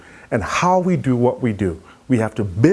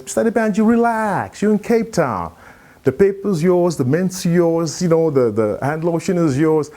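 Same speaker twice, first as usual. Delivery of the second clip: cab driver's voice; 5 semitones higher than usual. Retold or imitated. Driver voiced reassuring passenger.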